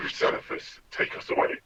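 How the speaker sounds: harsh whispered order, no voice; spat-out command. Acted. Villain calling to be taken away, spat out. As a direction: spit the words out in a whisper. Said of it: "he kind of spits out".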